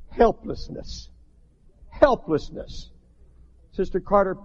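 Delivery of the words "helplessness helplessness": slow breathy whisper, each word dropped; hushed whisper. Real, not acted. Preacher to his congregation on helplessness, slow whisper. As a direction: let the word fall to a whisper.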